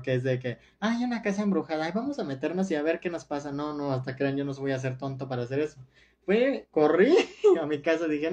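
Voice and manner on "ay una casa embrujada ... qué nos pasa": agudo, rápido y burlón, como la tonta del filme de terror; chica ingenua de película. Retold or imitated. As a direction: imita a la protagonista que se mete a la casa embrujada. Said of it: "que hacen muchas en las películas de terror". (imitación burlona de chica de película de terror)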